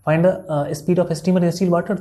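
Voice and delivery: slow, spelled-out reading of the question; slow dictation. Shown as a demonstration. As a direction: read it out slowly so they can copy. Teacher reading question slowly. (धीरे-धीरे सवाल पढ़ते हुए)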